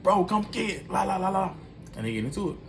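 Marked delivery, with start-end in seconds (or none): 0.0-1.5 put-on drunk sister taunt. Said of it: "She just like".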